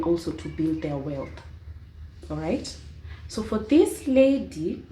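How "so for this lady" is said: drawn-out, very slow words; slow motion. Shown as a demonstration. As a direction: stretch each word out slowly. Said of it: "I'm even talking in slow motion".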